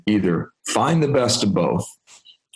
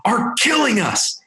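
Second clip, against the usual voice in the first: much higher, slow, squeaky voice for the colleague; imitating a colleague; slower than usual. Korean colleague shutting the door to warn new boss, high-pitched imitation. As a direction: play the colleague high and slow, sounding alarmed. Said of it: "He's like".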